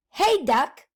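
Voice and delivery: loud witch call to the duck. Acted. Witch calling across the yard to a duck, loud call. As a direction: hail the duck like a cranky witch.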